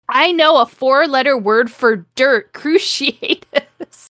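high, hammed-up spell cry breaking into laughter; mock scream. Reading Harry's curse aloud and cracking up, mock scream. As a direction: declaim it high, losing it to laughter. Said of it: "screamed Harry".

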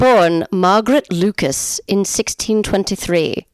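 playful fake English accent. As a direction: put on an amateur English accent. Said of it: "do a little English accent".

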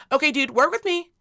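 strained patience, firmly spaced words; retold annoyance. Mom retells pressing her daughter, mildly annoyed. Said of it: "I was starting to get annoyed".

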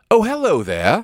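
a light imitation of someone pretending he was never asleep; imitating freshly woken friend. The speaker imitating his friend just woken at five, mock wide-awake. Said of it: "the most awake human ever".

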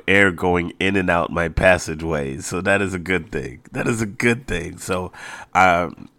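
slightly congested, nasal tone. Real, not acted. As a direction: speak through a stuffy nose. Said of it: "there is a little nasal thing going on".

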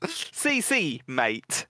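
tossed-off bad Italian accent; mock Italian accent. Still teasing about the nan, bad mock Italian accent. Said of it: "Like a worse Italian accent".

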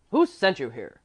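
loud, harsh question; harsh outburst. A narrator's reading. Gentleman questioning the intruding girl, harsh outburst. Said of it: "the man ejaculated harshly".

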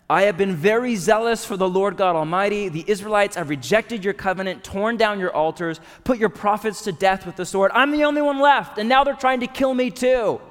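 loud, high, exasperated complaint poured out to God; desperate venting. Acted. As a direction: pour it all out at God, at the end of your rope. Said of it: "in a very different tone this time around".

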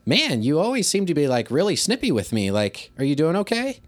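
lifted, casual concern for a student; non-confrontational teacher comment; friendly check-in. Acted. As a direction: lob it up lightly, ending on a rising question. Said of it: "a friendly way".

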